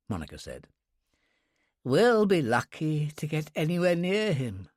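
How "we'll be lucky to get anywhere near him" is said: mildly mournful lament, a little higher. A narrator's reading. Dunkley to Monica about getting near the guest, mildly mournful. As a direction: grumble it with a touch of gloom. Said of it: "Dunkley told her mournfully".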